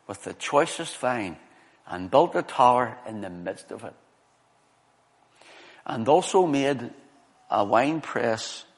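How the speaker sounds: slow, measured Bible reading with spaced phrases; scripture reading. Real, not acted. Preacher reads Isaiah's vineyard song to congregation, measured scripture reading. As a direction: read it out slowly, pausing after each phrase.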